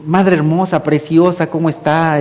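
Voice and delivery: tender greeting to his mother; lightly doting son; affectionate. Shown as a demonstration. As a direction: sweet-talk your mother gently. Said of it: "le hablo así".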